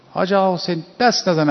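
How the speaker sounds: a lightly retold shout of warning; imitated shout. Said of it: "امام داد زد". (فریاد خفیف هشدار)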